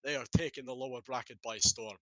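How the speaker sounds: put-on a light, playful stab at a Scottish accent. Caster hamming up a Scottish accent for the chat. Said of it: "I can put on my best wee Scottish accent for you".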